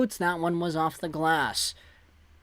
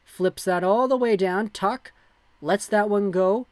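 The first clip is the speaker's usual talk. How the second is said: live play-by-play. Acted.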